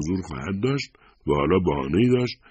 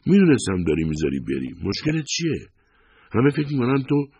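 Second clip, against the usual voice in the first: high, agitated outburst; exasperated wife raising her voice; raised voice; 9 semitones higher, 5 dB louder than usual. A narrator's reading. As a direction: confront them loudly, pitch climbing high. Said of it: "با صدای بلند گفت".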